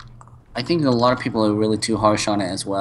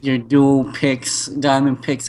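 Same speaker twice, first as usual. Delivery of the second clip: excited; 4 semitones higher than usual. Real, not acted. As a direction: reel off the loot in delight. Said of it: "you're sounding a little bit more excited for monotone".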